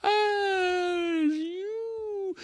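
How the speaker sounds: very high, slow, whimpering sloth; a weary sloth protesting it needs no energy; slow whiny sloth. Acted. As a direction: stretch each word out in a tearful whine. Sloth whining slowly.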